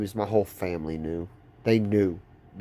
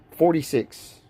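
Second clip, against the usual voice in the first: laughing reveal; 5 semitones higher, slower than usual. Real, not acted. Telling about the nurse's reading, laughing slowly. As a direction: laugh through the number, slowly.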